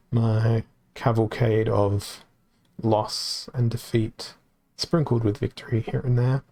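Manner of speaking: hoarse, worn-out voice; losing his voice. Real, not acted. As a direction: voice giving out after a long stream. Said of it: "I'm losing my voice as I say this".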